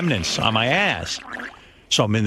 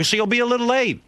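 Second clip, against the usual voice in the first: exasperated son; 13 semitones higher than usual. Retold or imitated.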